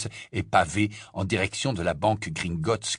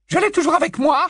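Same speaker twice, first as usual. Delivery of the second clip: icy tone; 7 dB louder, faster than usual. Acted. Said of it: "de son ton glacé".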